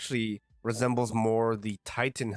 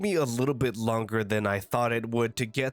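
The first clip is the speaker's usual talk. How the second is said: congested, stuffy-nosed voice; blocked nose. Real, not acted. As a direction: talk through a blocked nose. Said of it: "as you can tell by my voice, I'm very congested".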